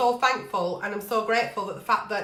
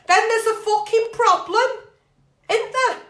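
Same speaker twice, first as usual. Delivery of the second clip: rising, louder on fucking problem; emphatic rant; 10 semitones higher, 5 dB louder than usual. Real, not acted. Ranting to a letter writer, raised and emphatic. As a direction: hammer the point home. Ranting about partner's drinking.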